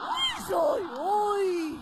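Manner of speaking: drawn-out gleeful cry; slow shouted glee; excited exclamation. Acted. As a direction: crow over the idea. Wife exclaims at her own idea.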